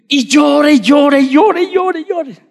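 high, hammed-up crying wail; mock wailing. Preacher imitating himself as a lost crying child, high mock wail.

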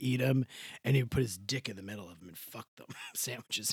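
words broken by laughter; giggling through the filthy punchline; laughing. Real, not acted. Telling a crude joke to a friend, laughing.

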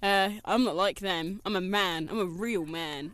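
a hint of a gruff macho boast; mock macho ad man. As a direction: play the real man from the ad, deep and pleased with himself. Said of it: "this man wearing these really big boots saying".

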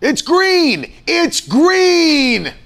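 high, loud, impatient traffic shout; road rage yell. Acted. Husband imitates wife at a green light, hammed-up road rage. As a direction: holler at the driver ahead, hammed-up. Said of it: "I'm the road rage king".

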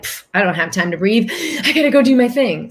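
hurried mock scoff; dismissive. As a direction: toss it off like you're too busy to breathe. Mock rushed inner voice.

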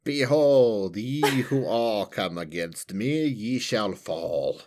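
slow archaic pronouncement; dark lord. Pretend. Grand fantasy larp proclamation.

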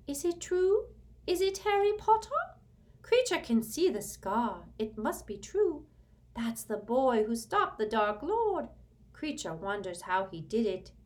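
high, loud elf whisper-grumble of wonder; awed house-elf voice. A narrator's reading. House-elf recognises Harry's scar, high and awed. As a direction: marvel at the famous boy like an old elf.

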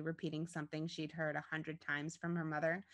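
ordinary delivery

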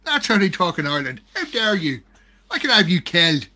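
put-on Irish accent, mock offence. Host defending Irish talk to co-host, mock Irish accent. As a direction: play indignant in a comic Irish accent. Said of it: "this is my favourite Irish accent".

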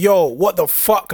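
drawn-out, stunned yo what the fuck; slow shocked yo. Retold or imitated. Stabbed man seeing blood, slow stunned exclaim. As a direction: stretch it slowly in shock. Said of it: "I'm like".

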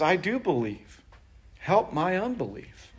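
soft, humble plea; a desperate father asking quietly; pleading father. Retold or imitated. Father begging Jesus for help, soft and pleading. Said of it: "And the man says".

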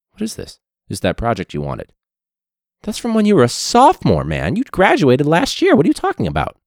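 high, loud incredulous scolding; hammed-up disbelieving teacher; mock disbelief. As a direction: act stunned at the old project. Teacher scolding late student.

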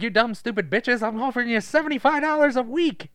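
high, loud exasperated scout; Jonathan Lovett impression. Scout offering weekly pay to two sisters, in Jonathan Lovett impression. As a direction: make the offer as an insult. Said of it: "You do his voice really good".

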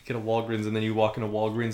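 ordinary delivery

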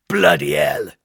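loud oath of alarm; startled curse. A narrator's reading. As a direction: curse loudly as the step gives way. Foot through rotten step.

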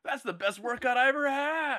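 high, slow, hyped exclaim; hammed-up buff hero bragging; pumped gym bro. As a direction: gush like a gym bro after a PR. Voicing bro hero after drink.

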